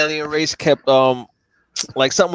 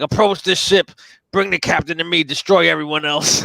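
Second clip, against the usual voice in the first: higher-pitched imitation of a Klingon, easing off; mock Klingon commands; 4 semitones higher than usual. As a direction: hand down hammed-up battle orders. Retold Klingon barks battle orders.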